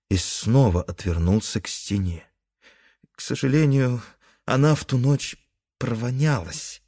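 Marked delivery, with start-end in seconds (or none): 3.2-6.8 apologetic. Acted. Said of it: "извиняющимся тоном добавила скунсиха".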